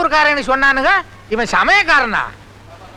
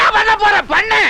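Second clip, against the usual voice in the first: angry challenge; 4 semitones higher than usual. Acted. Old man dares the nephew at the wedding, angrily. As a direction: snap back, daring him.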